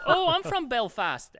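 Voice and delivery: high, loud Belfast exclamation; excited Irish accent. Retold or imitated. Irish shopper meeting a supposed countryman, excited Irish accent. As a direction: imitate a thrilled Irish woman, drawn out. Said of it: "this lady was like".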